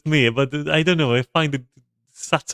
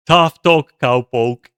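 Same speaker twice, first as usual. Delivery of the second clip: mock cowboy line; 6 dB louder, slower than usual. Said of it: "they weren't serious about it, they were like".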